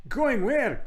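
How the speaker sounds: put-on very high, loud child voice; startled child. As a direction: squawk it in alarm as a child. Both children ask in alarm.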